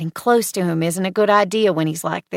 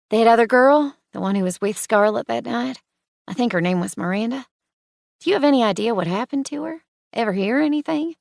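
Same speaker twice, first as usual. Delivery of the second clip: anxious rush; 4 semitones higher, 3 dB louder, faster than usual. Acted. Anxious rushed questions.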